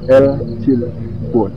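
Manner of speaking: "El Silbon" said very slowly, syllable by syllable; slow and drawn out. Shown as a demonstration. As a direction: draw out "El Silbon" for effect. Introducing the creature's name.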